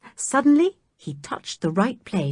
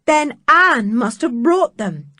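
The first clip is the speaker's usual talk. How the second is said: louder, slower, stressing Anne; eager cry; 4 semitones higher, 5 dB louder than usual. Acted. Dick to the others, an eager loud cry. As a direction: announce the hope. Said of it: "cried Dick".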